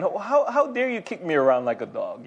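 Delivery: indignant Abner through a laugh; mock outrage with a laugh; laughing indignation. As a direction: chuckle while voicing his outrage.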